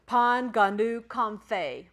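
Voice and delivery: "Pan, ganu" loud and slow, then "com, fay"; phonetic sounding-out. Shown as a demonstration. Teacher gives phonetic helps to class, "Pan, ganu, com, fay" slowly sounded out. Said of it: "those little phonetical helps".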